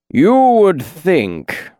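slow, high, honeyed drawl; thick honey voice. A narrator's reading. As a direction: let it pour out like honey. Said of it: "voice rolled out like thick honey".

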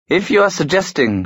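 icy and high, cold as frost; frozen voice. A narrator's reading. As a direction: freeze him with every word. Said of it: "she said in a frozen voice".

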